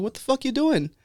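high, exasperated mock demand; fed up. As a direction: imitate a barber challenging his customer. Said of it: "fool got fed up with him".

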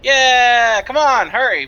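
loud, urgent hurry up; urgent call. Acted. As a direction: rush them through the gate. Urging the party to hurry.

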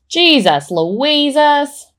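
high, very drawn-out exclamation; astounded. Pretend. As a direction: stretch the mild oath in amazement. Reacts to the reveal.

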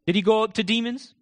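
ordinary talk, nothing marked

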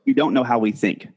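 slow and deliberate, each word clear; over enunciating. Shown as a demonstration. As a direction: spell it out word by word. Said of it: "say that again, one more time, slowly".

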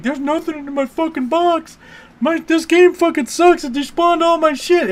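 loud, high, furious gamer complaint; angry rant. Retold or imitated. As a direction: rage at the game for eating his loot. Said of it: "He's like".

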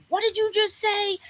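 high-pitched mock confrontation; confronting the guys. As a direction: imitate herself squaring up to the men. Banging on guys' hood.

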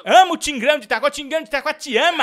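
loud, high and fast cheer; excited shout-out. Acted. Host cheering Tigrão de Itaquá to spite the caller, excited. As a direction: blast the shout-out.

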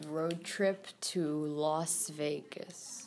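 soft unvoiced whisper. Real, not acted. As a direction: whisper it like a secret. Whispered secret plan.

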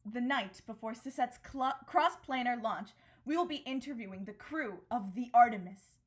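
upbeat broadcast host introducing the show. Acted. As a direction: announce it like a TV presenter. DM voices TV news host.

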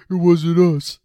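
shouted denial. Retold or imitated. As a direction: call it out loud and high from the tent. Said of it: "My buddy Griff goes".

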